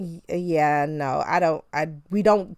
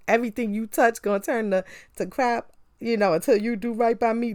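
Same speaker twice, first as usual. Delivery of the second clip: Color Purple curse quote; 3 semitones higher than usual. Retold or imitated. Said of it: "The Color Purple, where she's like".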